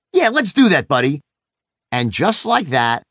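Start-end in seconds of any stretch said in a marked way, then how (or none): 0.1-1.2 fired-up dad agreeing. Retold or imitated. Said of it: "To which I said".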